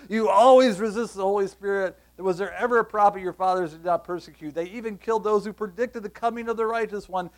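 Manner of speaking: forceful rebuke. Acted. Preacher reading Stephen's rebuke aloud.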